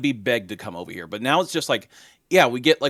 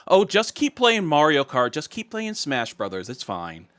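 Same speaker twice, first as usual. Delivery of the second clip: dismissive; 3 semitones higher than usual. Retold or imitated. Executive brushing off core Nintendo fans, dismissive. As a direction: imitate someone waving off a complaint, pitch sinking to a throwaway end. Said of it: "that kind of dismissive attitude".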